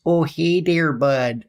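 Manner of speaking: nasal hoser greeting; nasal Canadian. Shown as a demonstration. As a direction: voice pulled up into the nose. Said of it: "Pull it more up into your nose".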